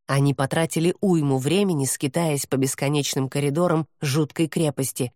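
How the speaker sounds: plain reading voice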